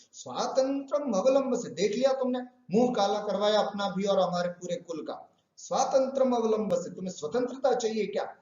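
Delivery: mock her freedom bitterly; a sage scolding the girl; angry taunt. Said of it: "बड़े रोष पूर्वक".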